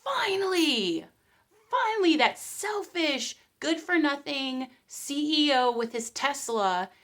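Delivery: gleeful triumph. Retold or imitated. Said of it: "everybody is thinking".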